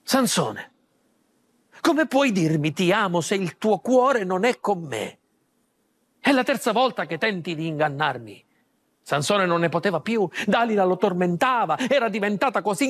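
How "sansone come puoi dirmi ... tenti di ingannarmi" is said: low, downcast reproach; Dalila's last plea to Samson, low and dejected. Acted. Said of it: "Dalila era affranta".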